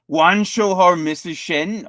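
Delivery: a hammed-up villain catchphrase, drawn out; Venom impression. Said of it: "In the words of your favorite character, the almighty Venom".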